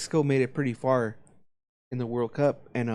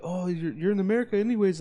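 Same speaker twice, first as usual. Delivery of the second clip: high, mocking la-la singsong; mock kid taunting; 6 semitones higher than usual. Imitating kids taunting the flag boy, high mocking voice. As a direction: taunt in a raised sneering voice.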